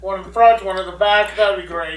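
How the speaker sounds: polite, projected bad British accent; badly faked British accent, marshalling a queue; terrible British accent. Stabber politely lining up victims, terrible British accent. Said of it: "That's a terrible British accent".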